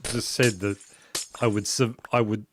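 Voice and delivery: talking around ice in mouth. Real, not acted. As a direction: speak with ice in your mouth. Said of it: "now you've got ice in your mouth".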